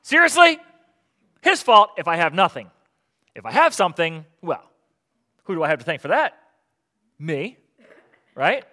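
loud, high, exasperated complaint to God; hammed-up angry fisherman blaming God; mock frustrated outburst. Preacher acting out a frustrated fisherman, loud mock outburst. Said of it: "there's a good chance I'm gonna say".

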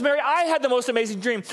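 high-pitched hammed-up thrill; mock romantic-movie amazement; gushing excitement. Preacher spoofs Joseph telling Mary his dream, gushing excitement. Acting a gushing Hallmark scene.

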